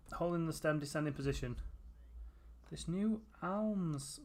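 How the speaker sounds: reading the words haltingly off the screen. Real, not acted. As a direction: stumble through it like an unfamiliar text. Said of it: "what's that word?".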